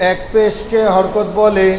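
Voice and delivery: slow chanted class recitation; slow sing-song drill recitation; recited aloud. Shown as a demonstration. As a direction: chant it slowly for the class to repeat. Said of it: "আবার".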